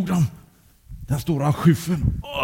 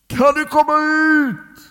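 loud, high, drawn-out call; 14 semitones higher, 6 dB louder, slower than usual. Acted. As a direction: shout down to a buried friend, stretching the words. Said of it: "ropade Uffe". (högt, utdraget rop)

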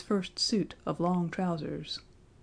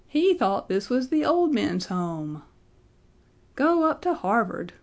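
high, loud taunts from a mob; jeering shouts; 4 semitones higher, 3 dB louder than usual. A narrator's reading. Students jeering after Benjamin, high and loud. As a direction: heckle him as he flees. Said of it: "ran shouting after the procession".

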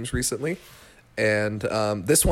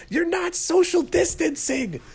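mock old lady, much higher, slow; scolding old lady; slower than usual. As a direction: squeak it like a fussy sixty-something lady. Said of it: "and she goes".

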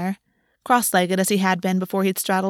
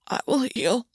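thready voice; 3 semitones higher, 4 dB quieter than usual. Acted. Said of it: "his voice was thready".

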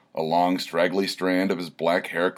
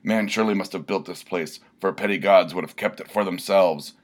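rapturous barbarian. Acted. Barbarian praises the waterpark, rapturous declaiming. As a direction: proclaim it like an epic hero. Filibuster's ode to the pool.

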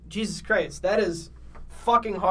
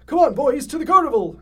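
Elder Kettle voice; 8 semitones higher, 7 dB louder than usual. Acted. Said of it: "said Elder Kettle".

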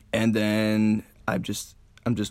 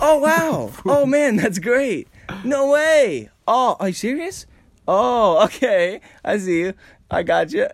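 much higher, louder excited chatter; mimed excited chatter; 10 semitones higher, 5 dB louder, slower than usual. Shown as a demonstration. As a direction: gush like a background extra. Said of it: "you're just like".

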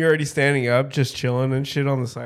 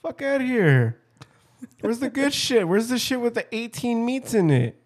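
mock disgust at food; 8 semitones higher than usual. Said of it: "I'm like".

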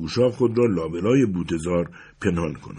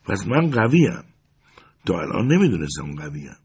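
boastful. Acted. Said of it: "فخر فروشانه ادامه داد".

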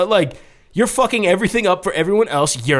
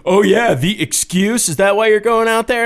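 mock accusing yell, a bit louder; mock fiancée rant; 5 semitones higher, 4 dB louder than usual. Retelling how the fiancée yelled about the podcast, mock yell. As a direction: imitate her bitching, higher and louder. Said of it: "bitching and yelling about".

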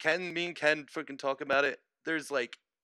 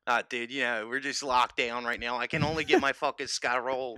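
put-on Philly accent; 4 dB louder than usual. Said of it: "Give me your worst Philly accent".

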